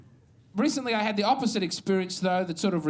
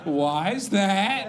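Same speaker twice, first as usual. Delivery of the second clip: mock innocent question; much slower than usual. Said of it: "And you go".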